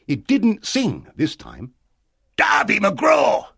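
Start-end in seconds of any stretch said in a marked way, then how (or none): 2.4-3.5 high, long-drawn eerie call; slow, loud ghostly shout; shouting from far away. A narrator's reading. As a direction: holler it across a great distance. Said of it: "it shouted from far away".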